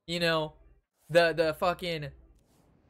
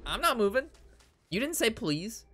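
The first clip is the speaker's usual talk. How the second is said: raised, defiant refusal with some attitude; 5 semitones higher than usual. Retold or imitated. Refusing to give the friend his seat, with attitude. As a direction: dig in your heels, snotty and defiant. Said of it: "So, of course, I get the attitude".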